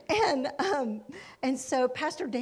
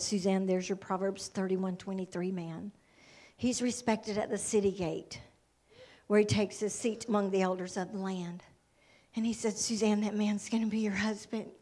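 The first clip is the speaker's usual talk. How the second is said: voice of God; 5 semitones lower, 3 dB quieter than usual. Retold or imitated. Quotes the Lord speaking to her.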